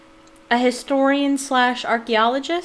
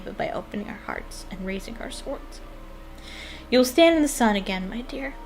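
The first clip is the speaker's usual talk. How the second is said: lightly heartfelt read-aloud, a touch livelier; letter read aloud; faster than usual. Acted. Player reads a consoling letter from a book, lightly heartfelt read-aloud.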